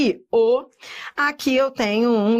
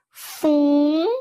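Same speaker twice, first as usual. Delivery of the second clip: FUNCIONÁRIOS split fun-ci-o-ná-rios, higher; syllable by syllable; 4 semitones higher than usual. Shown as a demonstration. Teacher showing vowel encounters in funcionários, syllable by syllable. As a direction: stretch and separate each part of funcionários.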